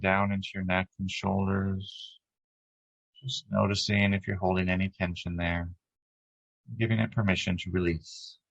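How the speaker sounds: calm, even meditation guide with long pauses; unhurried lead through breath and body, leaving space between phrases; guided meditation. Acted. Guiding a group to relax as light flows down, guided meditation.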